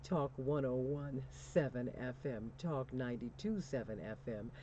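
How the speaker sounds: hearty city call-outs settling into low, measured call signs; radio station ID. Real, not acted. Host hails listening cities before the break, announcer style.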